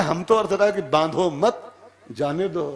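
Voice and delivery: "बांधो मत" as one unit, pause, then "जाने दो"; misread meaning. Acted. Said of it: "तूने क्या अर्थ लगाया".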